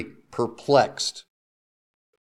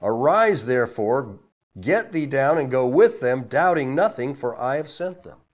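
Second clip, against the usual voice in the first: louder, slow on three men seek thee; Spirit speaking; 3 semitones higher, 5 dB louder than usual. Acted. The Spirit telling Peter to go, firm. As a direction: instruct Peter calmly but firmly. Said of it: "the Spirit said unto him".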